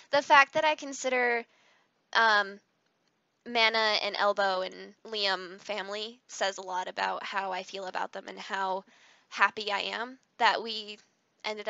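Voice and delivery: trembling a little as you speak; shaky voice. Real, not acted. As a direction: voice shaking with emotion. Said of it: "my voice is shaking a little".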